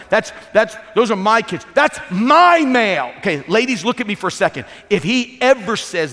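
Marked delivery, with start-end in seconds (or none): 0.1-3.1 louder, slower, indignant "my mail"; guard it like it's yours alone; possessive whine. Retold or imitated. Imitating a husband protecting his mail, louder and indignant. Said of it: "when they're going like".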